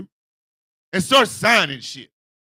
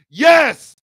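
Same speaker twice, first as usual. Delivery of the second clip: cheering yes; 4 semitones higher, 10 dB louder than usual. Retold or imitated. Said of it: "collectively hear everybody ... going".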